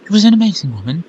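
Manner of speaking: fast, stumbling first read; rushed first read. Shown as a demonstration. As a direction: blurt it out quickly. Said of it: "She was an amazing woman".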